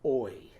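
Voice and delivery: "Oi" said as a short, clear squeaky oi; a quick demo of "Oi"; oi sound. Shown as a demonstration. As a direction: voice the toy's squeak as "Oi". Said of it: "Can you do that again?".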